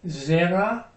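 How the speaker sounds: "zera" stressed on its first syllable. Shown as a demonstration. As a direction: say "zera" with the accent up front, on "ze". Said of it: "the accent is on the first syllable".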